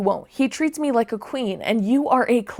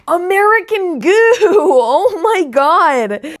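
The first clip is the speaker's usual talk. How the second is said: laughing disbelief; 7 semitones higher, 9 dB louder, slower than usual. Real, not acted. Disbelief at disgusting line.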